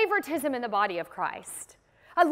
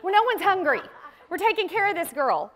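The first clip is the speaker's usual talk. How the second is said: take charge; 4 semitones higher than usual. Retold or imitated. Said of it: "We go".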